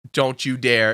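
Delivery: retold dread, pitched low; low warning. Guard dreading cashier's nugget news, low warning. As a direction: warn them off in a low voice.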